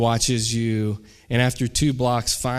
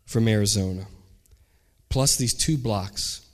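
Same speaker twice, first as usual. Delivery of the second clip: earnest plea; 3 semitones lower than usual. Acted. Teacher to former student he drove all the way to see, earnest. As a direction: spell it out phrase by phrase, sinking lower.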